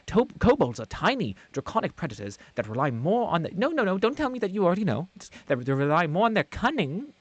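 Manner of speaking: snippy know-it-all explaining; exasperated lecturing. Acted. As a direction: lecture them, irritated.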